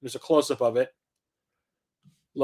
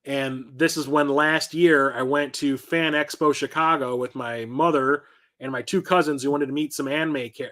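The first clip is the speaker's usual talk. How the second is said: ordinary delivery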